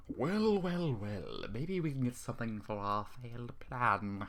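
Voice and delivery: slow, menacing "well, well, well"; lightly voiced gloating intruder; a hint of a cold-hearted burglar; harsh, cold villain. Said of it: "a harsh, cold voice said".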